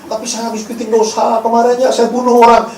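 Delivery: put-on anxious confession; confessing churchgoer. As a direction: blurt out a sin to the pastor.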